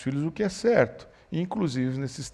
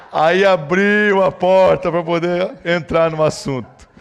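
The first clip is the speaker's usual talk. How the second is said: slow, loud words through laughter; laughing while talking; 4 semitones higher, 9 dB louder, slower than usual. Real, not acted. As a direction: keep laughing as you speak. Falando ainda rindo. (falando devagar entre risadas)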